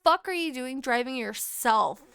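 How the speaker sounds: loud, emphatic mock telling-off; exasperated scolding. Grandchild scolding grandma for driving herself, exasperated.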